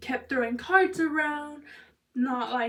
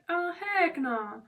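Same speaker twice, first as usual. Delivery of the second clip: higher, drawn-out mock refusal; emphatic refusal; 5 semitones higher, much slower than usual. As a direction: retell a slow, high-pitched no way. Emphatic refusal of his invitation.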